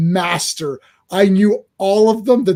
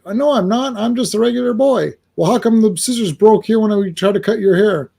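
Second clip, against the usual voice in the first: Superboy voice; 4 semitones higher than usual. Acted. Superboy voiced in comic retelling.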